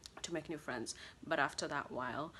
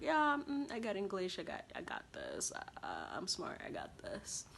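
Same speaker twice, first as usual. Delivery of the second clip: breezy overconfident brag, fading to a near whisper; cocky self-assurance; 3 semitones higher than usual. Retold or imitated. New student shrugging off her English papers, mock cocky. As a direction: shrug it off like you've got it covered. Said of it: "I was like".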